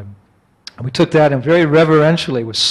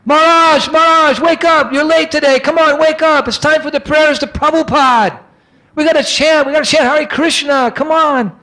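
much higher, louder calling out; urgent calling; 13 semitones higher, 5 dB louder than usual. Retold or imitated. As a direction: call through the door to wake him. Banging on the teacher's door.

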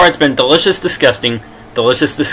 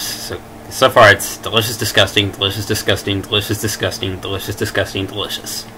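fading to a whisper; 4 semitones lower, 5 dB quieter than usual. Real, not acted. Listing pattern, fading out.

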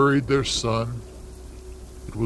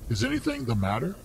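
breathless; 7 dB quieter, faster than usual. Acted. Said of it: "asked the old lady breathlessly".

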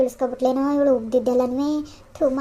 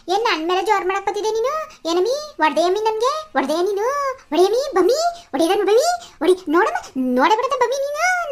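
shrill, higher, rising into furious yells; angry scolding; 6 semitones higher than usual. Acted. Mother-in-law yelling at daughter-in-law, higher and angrily raised. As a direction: berate her, threatening to slap back.

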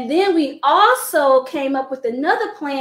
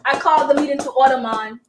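put-on Jamaican accent; faster than usual. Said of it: "She's not in there like".

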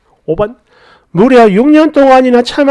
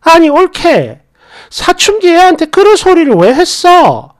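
higher, angry scolding in another voice; mock shouting down the phone; sister-in-law yelling at her over the phone, angry; imitating a yelling sister-in-law; 7 semitones higher, 3 dB louder than usual. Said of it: "고래고래 고함을 질러요".

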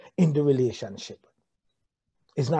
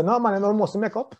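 laughing mock refusal; laughing mock retort; 5 semitones higher than usual. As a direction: toss it off with a laugh as the stubborn partner. Mock reply of stubborn spouse.

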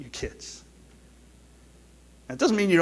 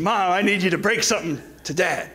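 laughing; 3 semitones higher than usual. Real, not acted. Quoting son while laughing.

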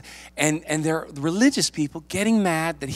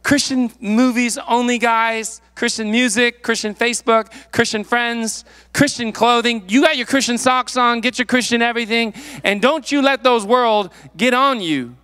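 mock preachy believer, higher and louder, slowed; hammed-up holier-than-thou lecture; mocking overzealous Christian; 6 semitones higher, 4 dB louder than usual. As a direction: lampoon a sheltered churchgoer laying down rules. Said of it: "And we're like".

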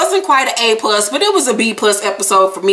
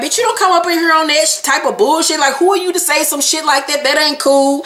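higher-pitched retold scolding; mildly indignant, pitched-up quote; mock telling-off; 5 semitones higher than usual. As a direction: imitate someone checking a rival. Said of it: "Tiffany started checking her".

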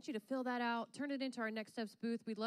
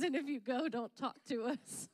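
quoting Hunter; slower than usual. Retold or imitated. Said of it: "Hunter says".

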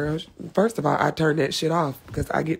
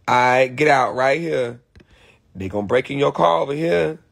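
lower-pitched, casual GPS guide; Black GPS voice; 4 semitones lower than usual. Acted. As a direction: give street-wise directions as a low-voiced GPS. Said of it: "Why can't we have a black G P S person?".

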